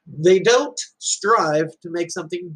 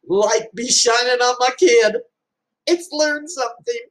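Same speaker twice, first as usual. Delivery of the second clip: emotional joy; 8 semitones higher than usual. Real, not acted. Parent overcome with pride.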